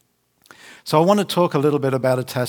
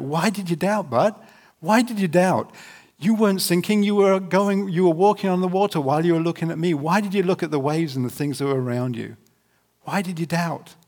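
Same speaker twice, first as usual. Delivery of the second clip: gentle Jesus voice; 5 semitones higher than usual. Retold or imitated. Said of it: "He said".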